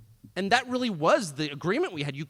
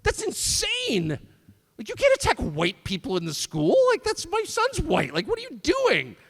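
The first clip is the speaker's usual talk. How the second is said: imitating brother; 9 semitones higher, 5 dB louder than usual. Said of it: "my brother would be like".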